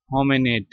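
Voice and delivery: होमिनिड said with "e" for the "i", like "ho-me-ned"; corrected pronunciation. Shown as a demonstration. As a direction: carefully model होमिनिड ending in "-ned", not "-nid". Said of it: "pronounce करते वक्त पढ़ेंगे". (होमिनिड में आई की जगह ई (e) वाला सही उच्चारण)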